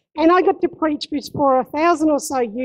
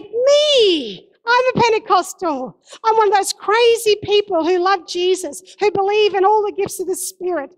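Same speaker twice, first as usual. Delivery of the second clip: higher, eager proud answer; excited declaration; 5 semitones higher than usual. Retold or imitated. Telling someone who asked what Pentecostal means, excited and proud. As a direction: declare it with joyful pride.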